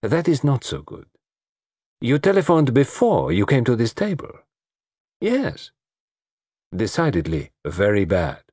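lightly voiced foreign detective, weighing each word; measured, pointed questioning with a foreign touch; detective's questioning. Detective quizzing a dinner guest about her telephone call, measured probing.

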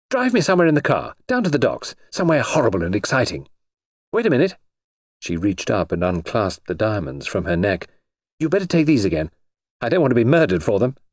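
put-on eager, quick young woman; thrill-seeking girl, fast; excited society girl. Noreen eager for adventure.

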